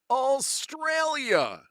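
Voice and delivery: hammed-up Australian accent, not trying too hard; bad Australian accent. Quiz host showing off a bad Australian accent to viewers. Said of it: "That is my really bad Australian accent".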